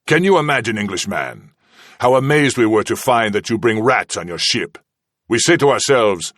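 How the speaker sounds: smooth, mocking menace with lifted pitch; menacing interrogator. Villain taunting his prisoner, silkily mocking. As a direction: toy with him like a cat with a mouse. Kazala taunting the captive Englishman.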